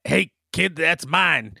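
mock shout. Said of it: "I'm just gonna shout".

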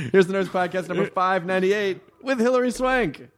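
high-pitched intro breaking into laughter; giggly, squeaky-high show intro; laughing announcement. Real, not acted. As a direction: announce the show while cracking up. Cracking up through the show intro.

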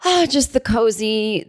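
talking through a smile; smiling voice. Real, not acted. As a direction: let the smile show in the voice. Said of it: "Can you hear the smile in my voice?".

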